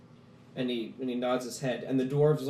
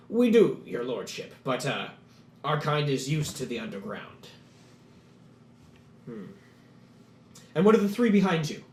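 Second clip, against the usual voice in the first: a lightly voiced eager dwarf, a bit louder; lightly voiced dwarf making his case; dwarf petitioner; 4 dB louder than usual. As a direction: pitch the plan with hesitant eagerness. Gurgen and Lalos exchange.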